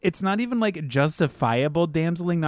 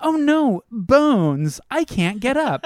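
high, loud hammed-up damsel panic; mock panic; 6 semitones higher, 5 dB louder, slower than usual. Ranger mocked as helpless before the bones, loud mock panic. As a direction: overplay the helpless heroine.

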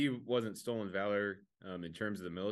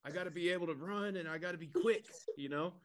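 fake soldier excuse; 8 semitones higher than usual. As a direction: sell the lie in a raised voice. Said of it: "And he's like".

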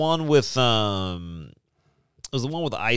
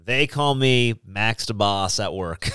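velvety voice; 3 semitones lower than usual. Acted. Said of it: "With that velvety voice".

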